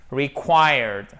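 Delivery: "Required" with a clear, long "kwai"; pronunciation demo. Shown as a demonstration. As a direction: model "Required" slowly, full KW sound. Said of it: "il faut bien faire le quoi". (« Required » avec le « quoi » bien marqué)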